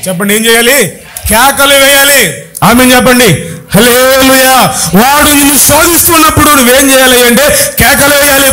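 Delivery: driving, high-pitched sermon delivery; rhythmic, insistent pulpit declamation; full-force preaching. Real, not acted. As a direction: preach relentlessly, hammering each repeated phrase. Rallies congregation with preaching.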